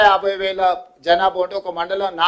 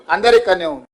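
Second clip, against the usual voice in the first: laughing; 4 dB louder, much faster than usual. Real, not acted. Laughing at empty meeting.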